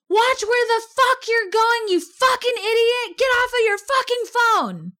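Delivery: high, shouted curses at a pedestrian; retold yell. Angry driver yelling at wife from his car. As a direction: hurl it out the car window. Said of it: "he yells".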